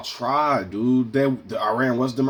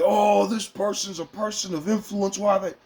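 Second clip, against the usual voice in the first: much higher, incredulous gasp of disbelief; shocked reaction; 10 semitones higher than usual. Retold or imitated. Imitating his own shock at a public figure. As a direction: play it wide-eyed and scandalised. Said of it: "And I'd be like".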